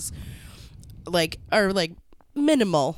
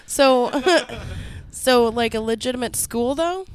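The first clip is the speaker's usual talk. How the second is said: high laughing disbelief; incredulous; 6 semitones higher, 5 dB louder than usual. Real, not acted. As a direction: laugh through a stunned question.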